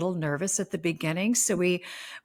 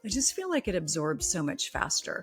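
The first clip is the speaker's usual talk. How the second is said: chatty, personal product endorsement over music; podcast ad read. Acted. Host telling listeners about her fall skincare, friendly ad read. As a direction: recommend it like a tip to friends.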